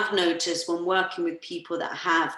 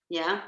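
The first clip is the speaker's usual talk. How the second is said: breathless sigh. Shown as a demonstration. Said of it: "It's kinda like".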